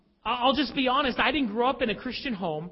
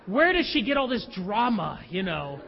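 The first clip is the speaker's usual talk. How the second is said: wry laugh; 2 semitones lower than usual. Retold or imitated. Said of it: "I thought".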